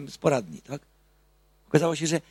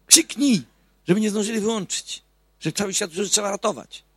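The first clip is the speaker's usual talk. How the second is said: higher, louder urging; mock urging shout; 6 semitones higher, 4 dB louder than usual. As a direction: echo the neighbour's plea, raised. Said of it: "krzyknął". (przedrzeźniane wołanie sąsiada, wyżej i głośniej)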